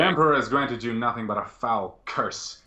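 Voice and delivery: mildly voiced scornful Inquisitor; a touch of righteous contempt; contemptuous Inquisitor. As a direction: curse the psyker with lofty disdain. Game master voices contemptuous Inquisitor.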